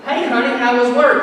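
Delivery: lightly sugary wife asking about the day; wife greeting her husband after work, lightly sweet. Retold or imitated. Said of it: "when your wife says".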